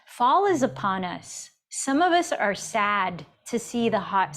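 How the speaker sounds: measured, emphatic reading of an inspirational excerpt; reading aloud. Real, not acted. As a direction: read it out deliberately, leaning on key words.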